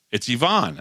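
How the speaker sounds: Yvonne said ee-VAHN; Yvonne with EE start and open AH ending; correct name pronunciation. Retold or imitated. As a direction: stress the second syllable of Yvonne, ee-VAHN. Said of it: "That's how you say it".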